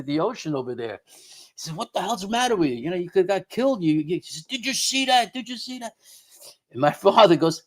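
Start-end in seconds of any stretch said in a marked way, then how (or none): 1.8-3.8 fast, high, exasperated scolding; a quick retold scolding from dad; scolding yell. Dad scolds friend at water. 4.5-5.9 high, breathless disbelief; fading into a stunned hush; frightened. Retold or imitated. Shaken friend after ghost.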